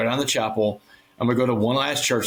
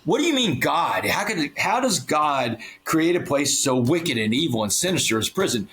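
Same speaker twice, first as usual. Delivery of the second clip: retold anger. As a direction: retell an angry challenge with restraint. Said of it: "I got so mad".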